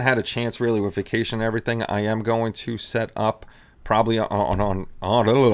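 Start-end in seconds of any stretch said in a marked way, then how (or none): 3.8-5.5 stumbling over the word on; catching on a repeated word; stuttering. Real, not acted. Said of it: "I'm stuttering".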